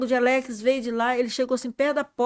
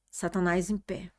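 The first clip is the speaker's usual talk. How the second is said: slow breathless whisper; awed whisper; 4 semitones lower, 6 dB quieter than usual. Retold or imitated. Telling the church of seeing Satan, hushed whisper. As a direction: hush it like you still see him.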